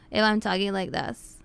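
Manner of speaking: non-nasal sample with a falling end. Shown as a demonstration. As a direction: let the pitch settle down to show no nasality. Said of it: "This isn't nasally".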